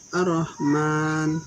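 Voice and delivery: Ar-Rahman with the r held doubled, slow. Shown as a demonstration. Teacher modelling for students, slow doubled r in Ar-Rahman. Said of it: "nanti kita baca".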